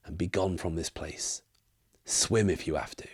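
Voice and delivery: lightly voiced old barkeep leaning in; conspiratorial barkeep. Barkeep warns a stranger about the warren, mildly conspiratorial. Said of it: "leans in conspiratorially and says".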